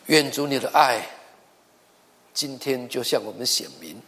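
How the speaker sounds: earnest closing prayer, steady and sincere. Acted. Pastor praying for the church and online listeners, earnest prayer.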